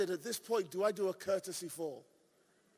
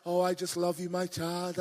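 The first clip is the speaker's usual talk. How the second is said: low, tender mock-loving God; sweet and gentle; 4 semitones lower than usual. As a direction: coo it low like a doting father. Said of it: "God's so sweet and gentle".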